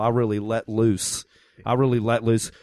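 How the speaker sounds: Baltimore accent. Shown as a demonstration. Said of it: "this is my Baltimore accent".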